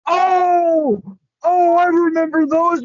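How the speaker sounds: high, excited "oh" of remembering; light up as it comes back to you; a burst of high-pitched realization; sudden recognition. Real, not acted.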